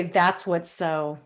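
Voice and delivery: That's what's so said slowly, each word weighted; slow, deliberate phrase. Shown as a demonstration. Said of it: "just say".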